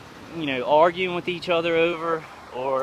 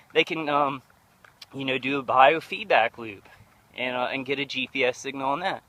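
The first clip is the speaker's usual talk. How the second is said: winded, catching breath between phrases; breathless from ranting. Real, not acted. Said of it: "pretty winded".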